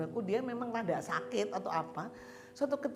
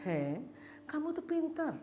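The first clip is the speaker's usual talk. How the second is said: tender reassurance; 6 semitones higher, 3 dB quieter than usual. Retold or imitated. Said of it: "terus saya bilang".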